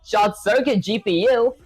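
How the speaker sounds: lightly voiced proud martial arts master; boastful sensei speech, hammed lightly; dramatic sensei. Reads AI sensei reply dramatically.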